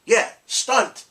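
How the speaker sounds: high, loud playful echo. Retold or imitated. Dad echoing his kid's word, high and loud. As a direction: bounce the word back gleefully. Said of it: "So I'm like".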